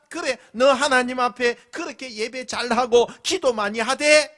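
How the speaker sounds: mocking taunt. Scoffer taunting the deacon, jeering high and loud. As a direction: jeer at him like a scoffer. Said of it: "비아냥거리고".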